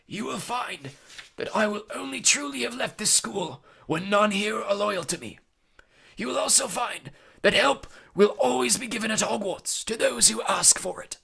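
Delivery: high-pitched, deliberate wizard's voice; slow, clear Dumbledore. A narrator's reading. Dumbledore promises help at Hogwarts, slowly and clearly. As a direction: make every word distinct. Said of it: "speaking very slowly and clearly".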